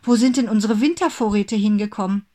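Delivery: alarmed mother crying out; shocked cry. A narrator's reading. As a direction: gasp it out as a startled mother. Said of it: "rief sie erschrocken".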